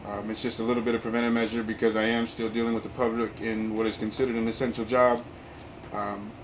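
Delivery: muffled behind a mask; talking through a cloth mask; through a face mask. Real, not acted. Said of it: "excuse the mask".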